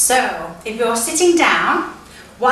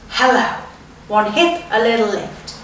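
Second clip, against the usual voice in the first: playful hip hello. Shown as a demonstration. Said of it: "at the other side".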